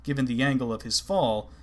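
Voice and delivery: ordinary delivery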